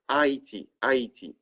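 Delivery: "Haiti" in French, ah-ee-TEE; French pronunciation. Shown as a demonstration. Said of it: "you add the accent".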